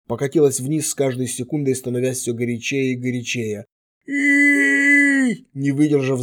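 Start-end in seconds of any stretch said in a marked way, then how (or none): 4.1-5.5 loud high scream of agony; wounded man screams under healing magic; yell of pain. A narrator's reading. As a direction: howl as the burning spreads. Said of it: "заорал Фес".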